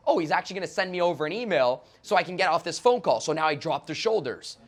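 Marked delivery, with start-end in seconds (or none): 0.1-3.2 louder, lifted relief; relieved client. Retold or imitated. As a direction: sound relieved and surprised. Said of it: "she's thinking like".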